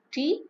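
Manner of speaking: "Tea" with a high rising tone; one-word question. Shown as a demonstration. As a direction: lift "Tea" sharply as an offer. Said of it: "I might just say".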